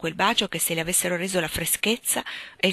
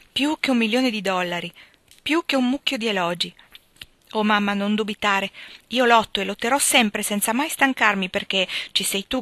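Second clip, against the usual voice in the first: fervent vow; 4 semitones higher, 3 dB louder than usual. Acted. Joe's moved vow to mother.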